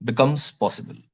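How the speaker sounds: words stretched out slowly for note-taking; slow dictation. Shown as a demonstration. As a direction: spell it out slowly for the class to write. (धीरे-धीरे लिखवाना)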